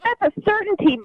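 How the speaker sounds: high, sharp threat; angry. Real, not acted. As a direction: snap it back fiercely. Angry mother threatens the kid.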